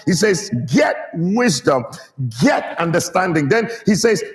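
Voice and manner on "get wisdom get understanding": insistent father stressing GET WISDOM, GET UNDERSTANDING; emphatic inflection. Shown as a demonstration. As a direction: GET hit hard both times. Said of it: "Let the child know that this is important".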